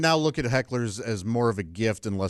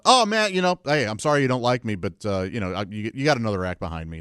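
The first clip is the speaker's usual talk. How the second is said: mock apology to heckler. Comic to heckler, mock friendly brush-off. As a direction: soothe the heckler with fake friendliness. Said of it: "I've just gone".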